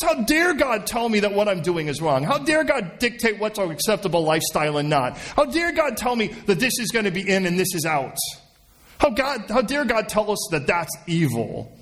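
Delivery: indignant objection. Acted. Someone objects to God setting the rules, acted indignation. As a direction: protest as an affronted objector.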